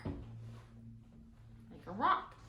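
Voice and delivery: slow whispered echo of Like a rock. A narrator's reading. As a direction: breathe Like a rock slowly, no voice.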